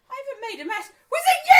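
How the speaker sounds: high retold protest, bursting into a shout; playful high-pitched retort through laughter; laughing mock accusation. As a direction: act out the accusation while cracking up. Acted reply to friends, laughing.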